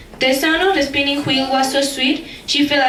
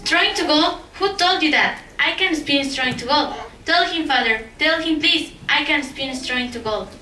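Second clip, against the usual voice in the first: lightly voiced pleading daughter; incredulous questions, then a mild plea; protesting girl. Girl protests to king and father.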